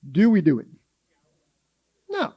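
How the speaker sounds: whispered rhetorical question; hushed aside to the pews. Real, not acted. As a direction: lean in and breathe it.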